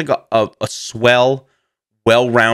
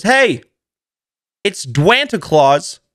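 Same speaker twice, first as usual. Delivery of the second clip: a hint of a cheery ad host, slow on Dwanta; imitating The Rock; 5 semitones higher, slower than usual. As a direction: lightly greet like a jolly holiday mascot. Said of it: "The Rock in a red polo goes".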